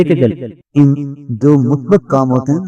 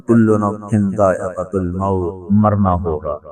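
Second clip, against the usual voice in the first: solemn recitation; 4 semitones lower, 4 dB quieter, slower than usual. Acted. God's word quoted solemnly.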